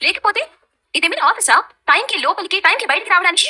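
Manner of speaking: mock the curfew with sarcasm; snappy sarcasm. Real, not acted. Wife retorting to mother-in-law, sarcastic. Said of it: "మీ పిల్ల మాటల్లో లవంగాలు".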